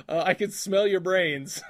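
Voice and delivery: slow, leering creep voice; creepy quote. Pretend. Quizzing his cohost, a slow leering quote. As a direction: savour each word slowly like a leering creep. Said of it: "This was Miggs".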